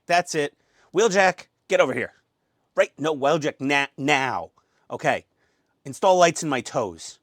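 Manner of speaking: lightly voiced bossy commander; Optimus Prime. Optimus ordering Wheeljack to install toe lights, lightly played commander. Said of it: "that's my best impersonation".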